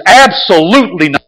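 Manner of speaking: mildly emphatic, deliberate declaration; bold. Retold or imitated. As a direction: state it firmly, as a bold quote. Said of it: "He says it in a, in a bold way".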